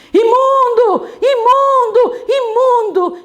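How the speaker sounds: high, loud cry of warning; shouting. Retold or imitated. Someone shouts at Maria on the road, shouting. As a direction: call it out high and loud, repeatedly. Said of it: "ela ouve alguém gritando assim".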